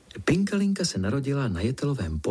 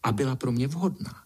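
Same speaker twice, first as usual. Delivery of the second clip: put-on high, self-important girlish voice; the vain ladybird lording it over the spider, voiced high; haughty little princess; 6 semitones higher than usual. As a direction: lie grandly, nose in the air. Pinkalinka boasting to spider.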